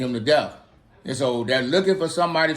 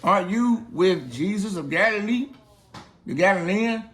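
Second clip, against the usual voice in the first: put-on higher, light girlish voice; nosy servant girl recognising Peter, higher; 6 semitones higher than usual. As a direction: play the curious servant girl asking. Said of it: "a servant girl came in here and said".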